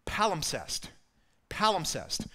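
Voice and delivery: "Palimpsest" as PAL-im-sest, stressed up front; careful pronunciation. Shown as a demonstration. Preacher teaching the congregation a fancy word, careful pronunciation. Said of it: "can pronounce this word".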